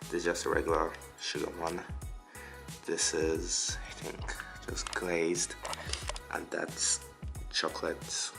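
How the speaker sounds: stuffy nose from a bad cold; blocked nose. Real, not acted. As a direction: talk with a blocked nose, like holding your nose. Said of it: "I've got a really bad cold, so if I sound like I'm holding my nose".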